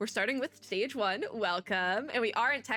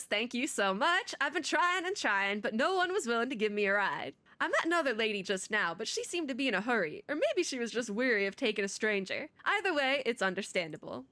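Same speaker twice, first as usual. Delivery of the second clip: put-on Southern accent; 2 semitones higher than usual. Streamer voicing a stranded traveler in Texas, Southern accent. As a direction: try on a Southern belle accent. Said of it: "southern voice accents? We probably should".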